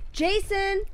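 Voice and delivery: high, loud overacted yell; hammed-up shout. Actor auditions with an overdone yell of Jason. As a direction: belt the name like a bad actor. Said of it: "the actor came in and was like".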